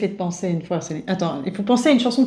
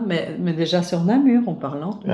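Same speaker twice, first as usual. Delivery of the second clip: mock Swiss accent; 3 semitones lower, 3 dB quieter than usual. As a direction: drag the words out like a Swiss speaker. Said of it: "l'accent suisse est revenu".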